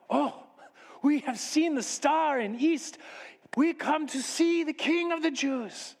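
high, slow, wondering foreigner; foreign magus. Acted. Magus explains they followed the star, foreign and wondering. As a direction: speak slowly and high as a reverent visitor.

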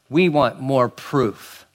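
slow, deliberate mock demand; Pharisees' demand. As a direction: spell out each word as a demand.

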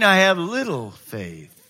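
slow, sinking admission; deflated little faith. Acted. Preacher acts out the next morning's doubt, deflated. Roller coaster of faith, low point.

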